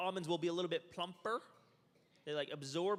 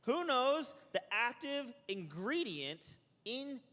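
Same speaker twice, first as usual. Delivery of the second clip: quiz question; 5 semitones higher, 3 dB louder than usual. Real, not acted. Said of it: "quizzing the class".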